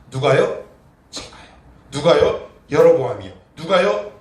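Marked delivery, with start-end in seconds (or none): none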